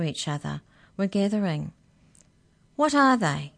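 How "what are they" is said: demanding. Acted. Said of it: "Mallory demanded".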